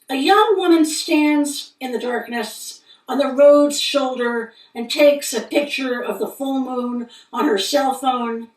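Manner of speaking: measured poem recitation with deliberate pauses; poetry reading. Acted. Poet reading a moon poem to listeners, measured recital. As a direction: read each phrase as a line of verse. Reads own poem aloud.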